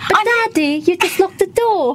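slow British accent; copied British ad voice. Shown as a demonstration. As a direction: repeat the ad line in a British accent. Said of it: "เอาวีลองสำเนียง British".

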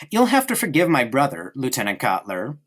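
mock apology, sister talking down about her brother; condescending. Gretel to the lieutenant, sweetly condescending. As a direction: sweetly belittle him to the guest. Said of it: "laying a hand on his arm".

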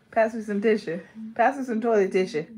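tissue with an uh ending; tissue as tisha. Acted. Mocking how others say it, tissue as tisha. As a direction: end tissue on a loose uh. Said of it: "No, that's hella ghetto".

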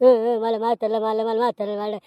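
imitated whimper with stuttered sobs; mildly mocking tearful babble; mock crying. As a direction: mimic a crybaby's whining complaint. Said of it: "तो आला रडत".

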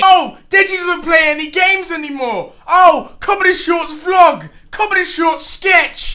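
mock whining complaint, mimicking viewers; whiny fan voice. Mimicking complaining viewers in a whiny voice. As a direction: sneer it like a nagging fan. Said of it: "You guys keep complaining".

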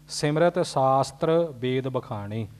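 ਸਿਮਰਤ said softly, with no nasal sound; soft ending, no nasal. Shown as a demonstration. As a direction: say ਸਿਮਰਤ lightly, without the nasal dot. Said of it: "ਸਿਮਰਿਤ ਪੋਲਾ ਜਿਹਾ ਉਚਾਰਨ ਕਰਨਾ".

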